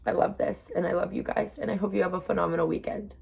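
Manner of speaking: barely holding it together while signing off; choked up. Real, not acted. Vlogger thanking viewers while choked up, tearful. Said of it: "I can barely talk right now".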